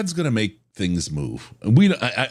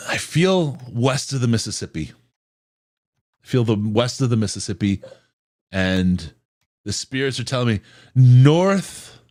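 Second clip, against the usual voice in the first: fortune teller voice. Pretend. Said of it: "if I put on my crystal ball".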